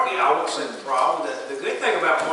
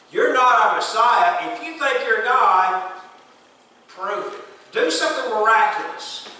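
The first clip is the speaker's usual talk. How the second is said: defiant Pharisees challenge; 5 semitones higher, 4 dB louder than usual. Retold or imitated. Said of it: "the Pharisees had already decided".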